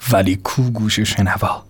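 ordinary delivery

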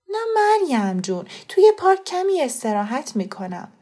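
a hint of a young woman talking her way out; lightly voiced persuading Fereshteh. Fereshteh reassures the mother.

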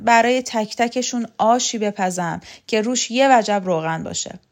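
proud, loud and threatening; boastful ranting. Acted. Shokat boasting to Vahab about loyal and disloyal men, loud and proud. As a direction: swagger through the list of enemies.

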